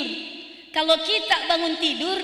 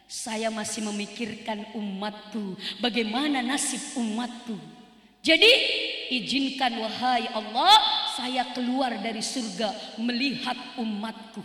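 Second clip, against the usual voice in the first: grieving plea; 5 semitones lower, 3 dB quieter than usual. Acted. The Prophet humbly tells God he worries for his people. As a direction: murmur it with a heavy heart.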